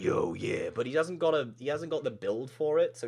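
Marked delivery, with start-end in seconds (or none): 0.0-0.7 gruff guy. Shown as a demonstration. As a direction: drop it down for a gruff greeting. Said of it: "he's got a really gruff look".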